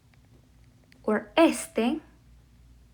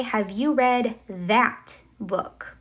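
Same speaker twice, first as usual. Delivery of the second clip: slow, careful example sentence; slow demo question; slower than usual. Shown as a demonstration. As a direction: read it slowly for the learners. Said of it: "I'm going to say".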